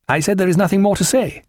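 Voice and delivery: put-on high, officious young officer; huffy young captain. A narrator's reading. Dixon answering Jack's challenge, huffy and high. Dixon repeats himself to Jack.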